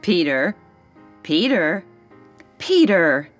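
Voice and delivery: calling for attention. Acted. Calling a boy absorbed in reading.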